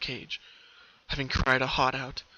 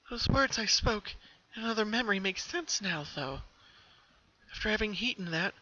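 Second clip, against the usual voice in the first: haunted Pinky; 6 semitones higher, 3 dB quieter than usual. Acted. Pinky voiced, haunted by memory.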